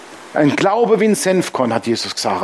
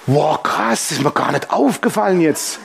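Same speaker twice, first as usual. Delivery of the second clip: mock-surprised Jesus. Comic Jesus voice.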